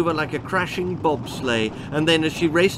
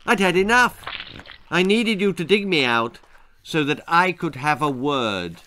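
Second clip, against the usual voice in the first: indignant bogeyman; 3 semitones higher than usual. Acted. Bogeyman complains to Dee.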